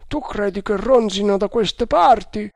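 the second guard brushes it off; doubting guard. A narrator's reading. Guard asks. (guardia incredula, voce alta e forte)

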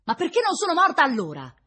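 loud, high cry of despair; anguished lament. A narrator's reading. Woman about to burst into weeping, despairing. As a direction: cry out, on the brink of tears. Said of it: "scoppiò in un pianto pietoso".

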